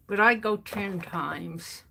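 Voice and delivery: talking around a needle held in the lips; needle in mouth. Real, not acted. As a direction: mumble with a needle between the lips. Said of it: "Got a needle in my mouth".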